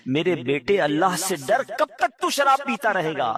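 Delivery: pleading mother. Retold or imitated. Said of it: "اس کی ماں اس سے کہتی تھی".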